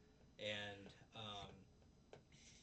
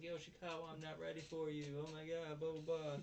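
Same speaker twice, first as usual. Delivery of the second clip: mock dreamy moaning; 6 semitones higher than usual. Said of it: "she's yelling".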